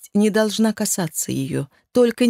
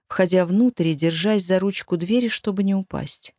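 ordinary delivery

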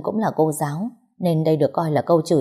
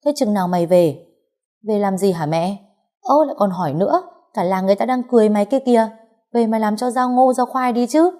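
mother scolding louder; 5 semitones higher than usual. Acted. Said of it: "nạt to hơn".

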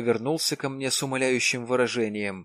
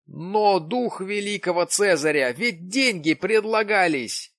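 exclaiming; 8 semitones higher, 5 dB louder than usual. A narrator's reading. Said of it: "воскликнул Джим".

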